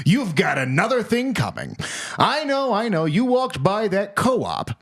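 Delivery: punchy announcer scolding the listener; emphatic, swooping sponsor spiel; mock ad read. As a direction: sell it as an over-the-top tirade. Mock sponsor read, first take.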